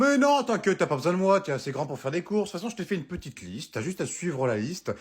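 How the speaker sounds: chirpy partner reeling off errands; sweet wife voice. Acted. Wife reassuring.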